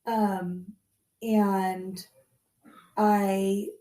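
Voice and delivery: croaky cold voice; hoarse voice. Real, not acted. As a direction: speak hoarse, like a sore throat. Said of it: "but I sound like this".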